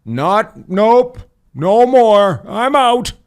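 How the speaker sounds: high, loud, huffy exit line; mock outraged quitter. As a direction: squeal it like you're storming off. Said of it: "Some guy put".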